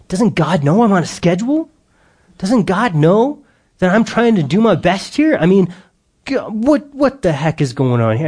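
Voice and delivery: David venting that God ruined his plans; frustrated outburst. Retold or imitated. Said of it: "just stewing angry".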